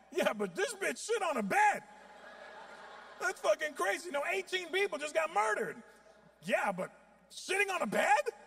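high, loud scandalised gossip; can't believe the juicy news; shocked gossip. Retold or imitated. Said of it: "I'm like".

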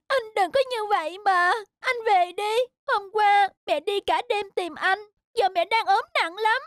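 high tearful kitten plea; tearful pleading. Acted. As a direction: beg brother to come home.

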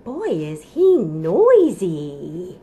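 slow, drawn-out playful wonder; mock amazement. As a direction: marvel at the noisy dinosaur. Mock amazement after roar.

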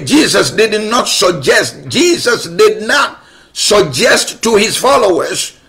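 NOT pressed, slowed down; stress on not. Acted. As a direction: lean hard on the not, slowly. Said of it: "he did not suggest".

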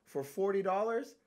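loud, high scolding tirade; retold rant. Scolding the old man about his cheap purchase, loud high tirade. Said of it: "I said".

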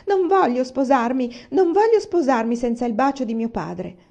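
insistent whining refusal; 1 tearful protest. Acted. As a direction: protest loudly like a stubborn daughter. Daughter refuses marriage tearfully.

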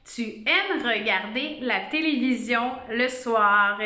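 measured dictation of the whole sentence. Shown as a demonstration. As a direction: read out "tu aimes regarder la télévision le soir" as one phrase. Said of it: "la phrase ce matin qu'on va écrire".

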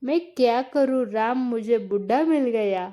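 slow, lightly mocking Hindi lament; mock complaint. Husband mocking wife's future complaint, slow Hindi lament. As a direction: imitate her whining, drawn out. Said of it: "तूच म्हणशील".

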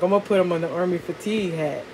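fast, eager retelling; quick excited line; rushed quote. Retold or imitated. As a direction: rattle it off like the eager uncle. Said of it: "He's like".

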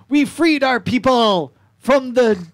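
high, slow little-creature voice; pebble voice. Acted. Pebble elder telling the party of the raid, high and slow. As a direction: speak like a tiny proud pebble.

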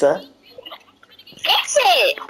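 high altered robot voice; a squeaky voice-changer voice; changed robot voice. Acted. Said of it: "you changed the voice setting again".

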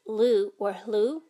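lu or hlu, the u as a rounded oo; Hmong vowel u. Shown as a demonstration. Teacher sounding out Hmong u for learners, slow. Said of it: "U sounds like".

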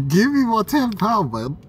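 loud demand. Real, not acted. Man yelling at the cash machine for his tenner, loud and high.

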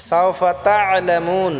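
সাউফা তা'লামুন slow, throat squeezed after তা; throat-pressed ayn. Shown as a demonstration. Teacher modelling তা'লামুন, ayn pressed in the throat. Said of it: "গলায় চাপ দিয়ে উচ্চারণ করব".

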